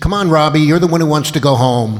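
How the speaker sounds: very loud, nasty, aggressive, mean tone. Retelling how the director told off a cast member at one in the morning, mimicking an aggressive, mean tone. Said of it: "in a kind of aggressive, mean way".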